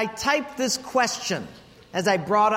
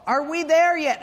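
put-on whiny kid; 6 semitones higher than usual. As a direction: drag it out like a bored kid in the back seat. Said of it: "kids nagging".

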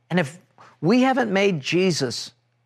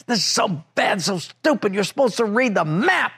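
a touch of raised, scolding complaint; mild retold anger; 5 semitones higher than usual. Husband blaming his wife after the wrong exit, mild mock anger. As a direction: grumble at her, lightly acted. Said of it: "and I'm so mad".

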